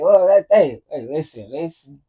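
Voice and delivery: English in a mock Spanish accent; fake Spanish accent. Dad passing as Spanish to his daughter, fake Spanish accent. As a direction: put on a hammy Spanish accent. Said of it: "You just talking with a Spanish accent".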